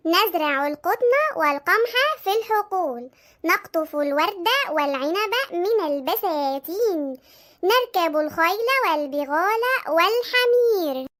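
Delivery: slow, measured recitation in formal Arabic; studying aloud. Acted. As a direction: recite it slowly, drawn out, like a lesson to memorise. Sister back to revising aloud.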